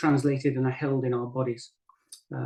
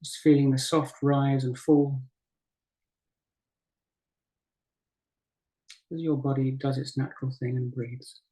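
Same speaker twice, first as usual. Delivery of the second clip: unhurried guiding voice with long pauses; guided meditation. Acted. Teacher guiding a group to breathe and settle, guided meditation. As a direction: ease them gently through each breath, leaving space between phrases. Leads breathing and body practice.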